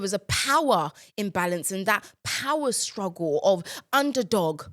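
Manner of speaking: lightly put-on literary analysis; mildly grandiose, deliberate essay waffle; exam-essay waffle. Shown as a demonstration. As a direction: wax lyrical like an English exam answer. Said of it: "That's how I was waffling".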